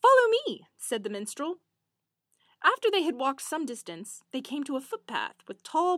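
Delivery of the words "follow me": commanding call. Acted. Minstrel giving a command.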